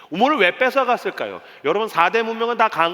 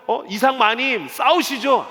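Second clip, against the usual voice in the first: raised, drawn-out urging; urging servants; 4 semitones higher, slower than usual. Acted. Servants urging Isaac to fight, in a raised eager call. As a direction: call it out high and slow to the master.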